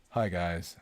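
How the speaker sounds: lightly voiced monotone magician; David Blaine impression. Streamer mimics David Blaine for chat, mild monotone. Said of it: "the way he talks".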